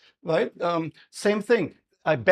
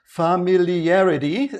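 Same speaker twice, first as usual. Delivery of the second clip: familiarity in a slow, loud German accent; 6 dB louder, slower than usual. Shown as a demonstration. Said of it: "here comes my German accent".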